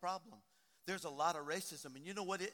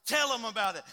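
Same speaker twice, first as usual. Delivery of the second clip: encouraging, growing louder toward the end; urging her on; 4 semitones higher, 10 dB louder than usual. Retold or imitated. Preacher retells cheering on the woman on TV, urging. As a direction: cheer her on from your seat, building. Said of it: "and I'm like".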